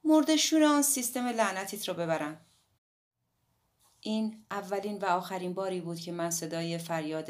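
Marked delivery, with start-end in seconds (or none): 0.0-2.4 loud, furious cursing outburst; angry shout. A narrator's reading. Hatsumi finally loses her temper with Nagasawa, furious shout. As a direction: spit the curse out at full volume. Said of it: "هاتسومی فریاد زد".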